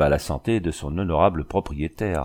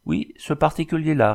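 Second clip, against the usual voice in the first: higher, lightly amused reply; smiling tone; 8 semitones higher than usual. A narrator's reading. Engineer answering the scornful dragoon, smiling. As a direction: answer with a smile in the voice. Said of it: "répondit l'ingénieur d'un ton souriant".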